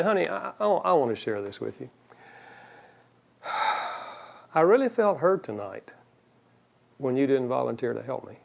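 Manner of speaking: gentle, softly spoken hurt with a sigh; kind complaint. Retold or imitated. Wife telling husband she felt hurt, gently. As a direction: voice the hurt without blame, quietly. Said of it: "you said it in a kind way".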